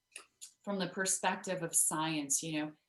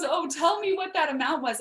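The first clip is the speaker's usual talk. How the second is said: eager donor; 9 semitones higher, 9 dB louder than usual. Retold or imitated. Rich woman voiced in story.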